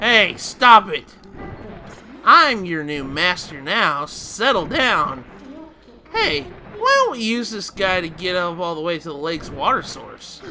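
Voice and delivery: lightly voiced girl taming a wild mount; Minda rodeoing. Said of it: "Minda goes and".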